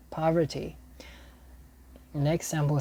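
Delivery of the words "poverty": whispered. Shown as a demonstration. Teacher repeats the sample word to herself in a whisper. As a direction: breathe "Poverty." out as a whisper. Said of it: "practising the word aloud".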